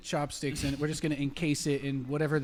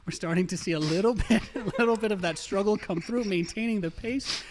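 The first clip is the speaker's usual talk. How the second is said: sports commentary; 3 semitones higher than usual. Acted. Play-by-play continues.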